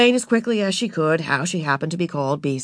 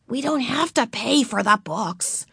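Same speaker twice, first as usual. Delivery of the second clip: big sister voice; 5 semitones higher than usual. Acted. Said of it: "said Beezus".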